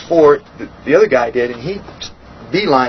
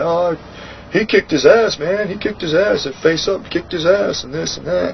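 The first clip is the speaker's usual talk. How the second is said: raised, jeering retelling of the brag; mock the guys bragging he got beaten, pitched up; mocking gossip voice; 5 semitones higher than usual. Mocking the rumors he'd heard.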